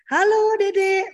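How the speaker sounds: put-on high, drawn-out singsong hello to a little child; loud, lilting phone hello; cheery parent greeting. Shown as a demonstration. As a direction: stretch it out brightly and sweetly. Models phone greeting to small child.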